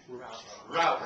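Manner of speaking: American route. Shown as a demonstration. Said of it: "if you're an American".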